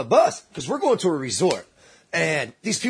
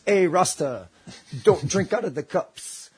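slow warning, lightly voiced Jamaican man; a hint of a Jamaican man warning someone; imitated Jamaican warning; slower than usual. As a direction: pass on a slow, pointed heads-up as a Jamaican local. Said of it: "then Jamaican turns and looks at me and goes".

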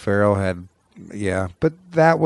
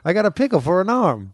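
silly character voice; 8 semitones higher than usual. Retold or imitated. Quoting Sandler sketch character.

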